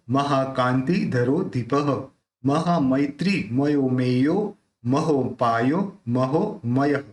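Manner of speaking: measured devotional chanting of the names; slow sacred chant; stotra recitation. Shown as a demonstration. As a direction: recite each name as a prayer, evenly and deliberately.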